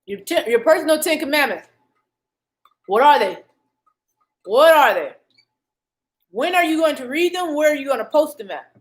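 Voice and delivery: talking with a burning mouth; mouth burning from spicy food. Real, not acted. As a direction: speak through a burning mouth. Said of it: "Oh, y'all, my mouth is burning".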